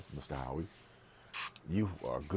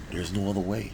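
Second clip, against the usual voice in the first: emphatic; 4 semitones higher, 6 dB louder than usual. Real, not acted. Insisting, repeats himself.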